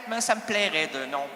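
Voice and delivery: normal talking voice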